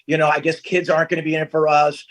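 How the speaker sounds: low, measured words of comfort; consoling. Retold or imitated. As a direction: gently break bad news, as a retold rehearsal. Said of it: "ready to console her".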